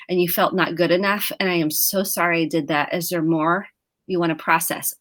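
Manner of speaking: reassuring apology. Retold or imitated. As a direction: model a gentle, repairing reply. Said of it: "I wanna go".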